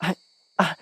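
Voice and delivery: halting repeated I, caught by fear; frightened stammer. A narrator's reading. Heroine stammering at her knife-wielding captor. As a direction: stammer it out under a knife at the throat. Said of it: "I managed to stammer".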